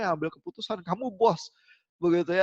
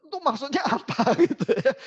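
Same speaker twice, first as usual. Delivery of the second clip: higher, louder, breaking into laughter; amused disbelief; 6 semitones higher, 4 dB louder than usual. Real, not acted. Lecturer puzzled by a copilot's cryptic hint, laughing. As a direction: laugh through the puzzled question.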